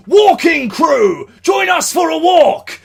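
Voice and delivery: high, loud, slow call across the camp. Retold or imitated. Guys roaming the campsite at night, loud calling out. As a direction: summon everyone to the walk. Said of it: "guys walking around the camp at night going".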